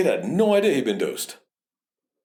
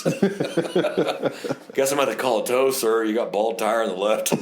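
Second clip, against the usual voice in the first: slow, laughing cop voice; mock traffic cop; slower than usual. Officer imagining ticketing the lawyer, laughing. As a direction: savor it through laughter.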